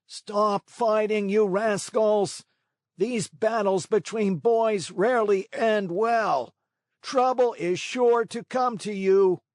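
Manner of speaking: high, slow booming crab voice; a stuffy old crab scolding the boys; crab with a cold. A narrator's reading. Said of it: "a voice that sounded like a trombone suffering from a cold".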